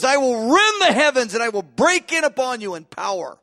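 rising up loud and high, proclaiming; booming voice of God. Acted. Preacher voicing God's promise of revival, booming. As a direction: thunder it out as God himself. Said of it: "He goes".

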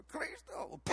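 soft, breath-only "Cristo"; hushed mock-prayer murmur; mumbled prayer word. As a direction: imitate the priest murmuring it, barely voiced. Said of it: "he just kinda mumbled it".

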